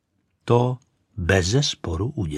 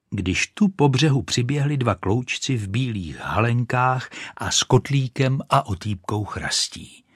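ordinary delivery

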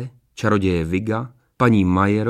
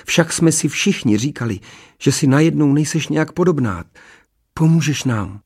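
eager princess; 6 semitones higher, 3 dB louder than usual. A narrator's reading. Princess eagerly answers her mother.

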